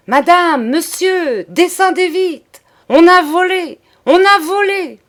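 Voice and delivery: full-lung alarm, high and loud; shouting up the stairs. A narrator's reading. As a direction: yell it up the staircase to wake the house. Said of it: "De toute la force de ses poumons, il cria".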